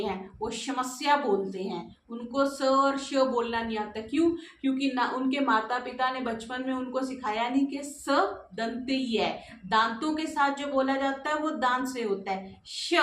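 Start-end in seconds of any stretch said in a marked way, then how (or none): 0.5-1.2 समस्या with an SH opening, "shamasya"; mispronounced S as SH. Retold or imitated. Teacher mimicking people who confuse sounds, mispronounced समस्या as "shamasya". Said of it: "स को श बोलते". 12.7-12.9 श alone, a drawn-out "sha" with tongue behind the teeth; isolated SH sound. Shown as a demonstration. Teacher showing students where श is made, isolated "sha". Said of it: "जब जीभा आप दांत के अंदर लगाते हो तो श आता है".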